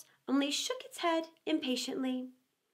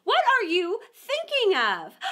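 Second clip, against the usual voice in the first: high, squeaky little mouse; a prim, touchy mouse asking; 7 semitones higher, 7 dB louder than usual. Acted. Mouse speaking in story.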